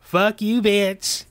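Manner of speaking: group shout. Acted. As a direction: yell it at them all together. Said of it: "we're gonna give this one last time".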